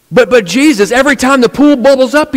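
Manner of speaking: high pitiful whine; pleading paralyzed man. Retold or imitated. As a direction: cry out in a high helpless voice. Paralyzed man protests to Jesus.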